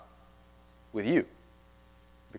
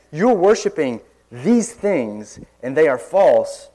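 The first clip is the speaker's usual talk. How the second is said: bold preaching; 4 dB louder than usual. Acted. Preacher showing how to confront false worship, boldly. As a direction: open forcefully, then settle into plain proclamation. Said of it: "that kind of boldness in preaching".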